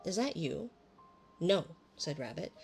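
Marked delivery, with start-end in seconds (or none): 0.1-0.7 high, loud call into the hole; loud hello. Acted. Pooh calling into the hole to Rabbit, loud and high. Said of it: "put his head back in the hole and said". 1.4-1.8 louder disguised no; different voice. Acted. Rabbit pretending not to be himself, in a disguised voice. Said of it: "in a different sort of voice this time".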